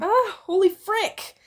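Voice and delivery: high, loud, drawn-out startled yelp; student jolted by a loud phone video; startled gasp. A narrator's reading. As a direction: jump out of your skin mid-line. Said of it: "Izuku had gasped".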